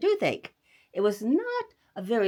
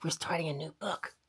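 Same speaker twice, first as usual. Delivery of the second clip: whispering; 3 semitones lower, 4 dB quieter than usual. Acted. Whispered intro to children.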